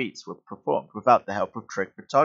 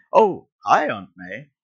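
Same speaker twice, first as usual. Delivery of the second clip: surprised greeting; 3 semitones higher, 7 dB louder, slower than usual. Acted. Boy interrupted by his aunt, surprised greeting. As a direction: break off brightly into a startled hello.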